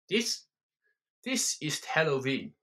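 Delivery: a hint of a German accent, ranting; lightly voiced German bar owner. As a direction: swagger through the rant.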